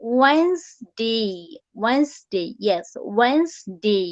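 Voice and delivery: "ওয়েন্সডে" drawn out as "wenz-dey"; model pronunciation. Shown as a demonstration. Teacher giving students the word, slow model pronunciation. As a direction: repeat "ওয়েন্সডে" slowly with no middle D sound. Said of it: "আমি pronunciation word গুলো বলে দিচ্ছি".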